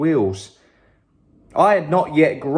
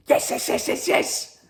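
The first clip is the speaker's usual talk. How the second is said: excited whisper; 12 semitones higher, 3 dB quieter than usual. Acted. Child begs eagerly.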